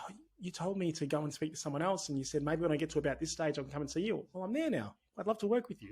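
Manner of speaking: a hint of a happy returning client; imitating a returning client. Returning client tells the founder he's ready now, mildly mock eager.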